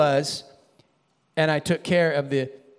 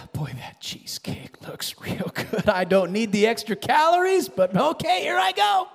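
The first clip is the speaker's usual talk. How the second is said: tempted dessert eater; 3 semitones higher than usual. Retold or imitated. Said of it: "and you go".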